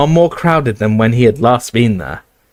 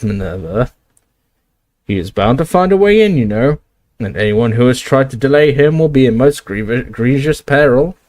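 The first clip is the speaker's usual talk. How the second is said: fretting Slughorn; 2 semitones higher than usual. Acted. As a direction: fret and fuss about the danger. Slughorn flustered.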